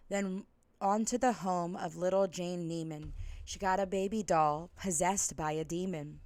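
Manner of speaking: rhythmic, sing-song rhyming read-aloud; lilting holiday storyteller; storybook narration. A narrator's reading. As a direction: read it like a bedtime story to kids.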